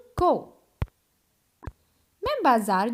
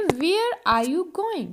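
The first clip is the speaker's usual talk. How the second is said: slow model sentence; much slower than usual. Shown as a demonstration. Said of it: "तो उसको कैसे बोलोगे?".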